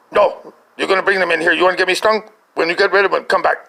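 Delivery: mock-indignant dismissal; retold scolding refusal. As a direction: turn him away as an exasperated mom. Mom refuses to open door.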